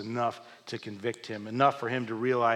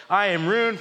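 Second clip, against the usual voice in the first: a prophet wailing his ruin, voice raised; desperate raised lament; anguished cry; 8 semitones higher, 7 dB louder than usual. Acted. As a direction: cry out loud and high in despair. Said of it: "I cried".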